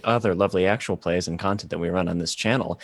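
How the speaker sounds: polished promo announcer read. Acted. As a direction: sell it like a channel announcer. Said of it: "I'm just doing my announcer voice now".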